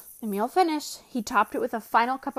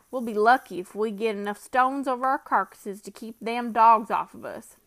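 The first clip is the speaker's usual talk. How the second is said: Bill's voice; 4 dB louder than usual. Acted. Bill muses on the dead man.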